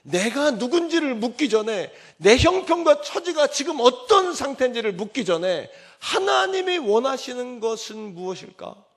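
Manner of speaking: high, loud preacher's appeal; impassioned preaching. Acted. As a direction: preach it out to the congregation. Preaching with raised voice. (높고 힘찬 설교)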